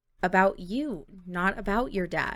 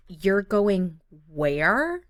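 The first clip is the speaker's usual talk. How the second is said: shocked; 4 dB louder, much slower than usual. Acted. Rachel shocked by news.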